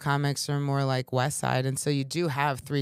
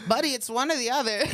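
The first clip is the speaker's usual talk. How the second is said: laughing retort; 8 semitones higher, faster than usual. Retold or imitated. Retold retort to heckler, laughing.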